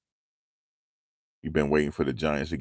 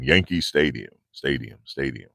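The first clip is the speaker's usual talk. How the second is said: echoing stadium; 4 semitones lower than usual. Retold or imitated. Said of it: "he used to vibrate when he say stadium".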